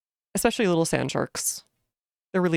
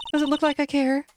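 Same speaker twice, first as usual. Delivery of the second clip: snide character; 11 semitones higher than usual. Acted. Voicing rude character.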